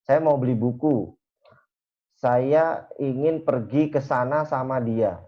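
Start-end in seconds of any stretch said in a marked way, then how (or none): 2.1-5.2 slow, deliberate full sentence; careful written-style phrasing; slow formal example. Shown as a demonstration. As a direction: lay out the formal version word by word. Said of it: "Nah, itu kan beda ya".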